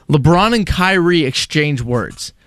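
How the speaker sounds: slow, deliberate headline read; mock headline reading. Co-host quoting a sports network's silly headline, slow mock-serious read. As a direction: read it out slowly, each word weighed.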